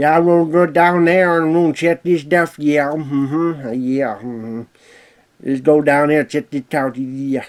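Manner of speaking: drawled, mumbled words. Voicing a farting redneck character: Boomhauer voice. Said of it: "trying to sound like Boomhauer".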